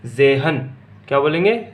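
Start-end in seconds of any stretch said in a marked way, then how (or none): 0.1-0.6 जेहन as German zehn, opening on a buzzed z, no t heard; silent t. Shown as a demonstration. Teacher modelling German ten for the class, जेहन as "ze-han" without t. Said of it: "तय को नहीं बोलेंगे".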